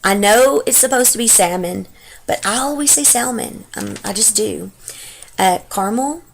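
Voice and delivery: reading words in her own Texas accent; Texas accent word list. Shown as a demonstration. Vlogger reading the dialect tag list in her Texas accent. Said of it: "get right to doing this dialect tag".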